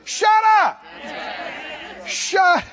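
preacher yelling shut up at fear; shouted command. Shown as a demonstration. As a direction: shout it down like you're silencing the devil. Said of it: "That's when you say".

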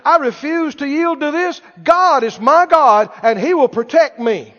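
bold, emphatic declaration of faith; preacher's firm out-loud confession; speaking out loud. Shown as a demonstration. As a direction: declare it out loud, punching key words. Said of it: "speak out loud and say".

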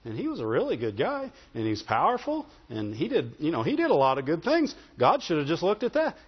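a mild imitation of a doubting believer; complaining churchgoer. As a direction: grumble like someone who feels God was unfair. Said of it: "People say".

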